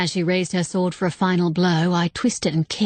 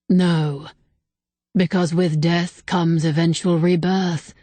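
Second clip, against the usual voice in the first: solemn spirit voice. Acted. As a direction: speak like an ancient being, unhurried. Ancient spirit explains.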